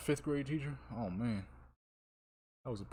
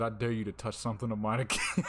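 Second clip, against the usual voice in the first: laughing threat; 3 dB louder than usual. Retold or imitated. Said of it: "I said".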